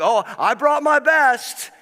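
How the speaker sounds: high, slow, mock-innocent sing-song; hammed-up saintly voice covering a lie; fake pious claim. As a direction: play it falsely pious, all innocence. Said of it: "this little religious thing ... trying to cover over it".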